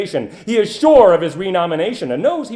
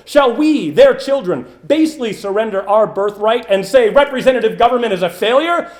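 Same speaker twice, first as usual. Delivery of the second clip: building to a loud, ringing call to arms; rousing oratory climax; 3 semitones higher, 5 dB louder than usual. Acted. Orator rallying the crowd against the machine, building loud. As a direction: swell the voice to a rallying peak.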